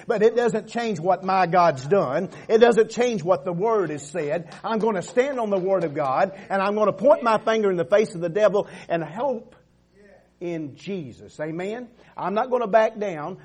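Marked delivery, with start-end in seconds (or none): 0.1-9.5 loud, driving sermon climax; full-force preaching. Acted. Preacher rallying the congregation, loud and building. 12.2-13.4 loud, high declaration; full-force preaching. Acted. Preacher defying the devil before the church, loud.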